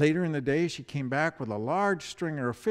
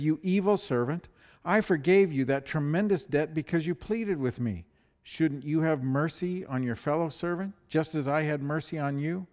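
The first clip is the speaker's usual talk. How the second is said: a stern, raised royal reprimand; angry king; 3 semitones higher, 4 dB louder than usual. Acted. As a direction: scold the servant from the throne. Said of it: "the angry king".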